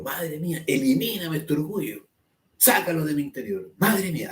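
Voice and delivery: a touch of fervent pleading; mock vehement plea. Shown as a demonstration. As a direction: pray with understated urgency. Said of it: "así, con mucha vehemencia".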